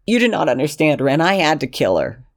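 put-on high, pleading young man's voice; desperate Lexington.

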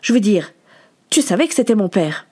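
dry, pointed question in short bursts; understated accusation; curt questioning. Acted. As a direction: ask it coldly, with brief pauses. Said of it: "lui demanda sèchement".

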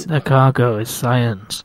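drawn-out theatrical announcement; slow loud whisper. Real, not acted. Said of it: "That's louder than you normally talk".

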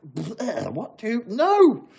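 disgusted noise rising to a loud high yell; acted outrage. Fan reacting to the writers' pitch, in loud high-pitched outrage. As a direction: squeal in protest, then shout it down.

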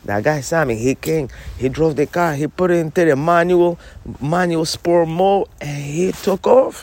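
punchy storytelling demo. Shown as a demonstration. Showing Annie how to tell the driving story, punchy storytelling. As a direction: tell it with a showman's build. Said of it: "You gotta say it like it is".

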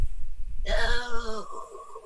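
long winded exhale; drawn-out groan of escaping breath; exhaling. Acted. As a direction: let the breath out as if knocked flat. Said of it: "just exhaling".

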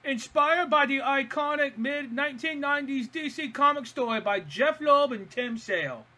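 high, put-on voice, reading laboriously; imagined trivia writer's voice. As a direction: read it out in a silly high voice. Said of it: "read it in the voice that I imagine it was written in".

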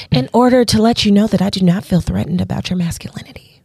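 quick, hushed, sweetly lightened; nice feminine voice. Shown as a demonstration. Lightening the question for men's egos, quick hushed sweet voice. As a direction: soften it so he won't feel threatened. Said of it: "in my nice feminine voice".

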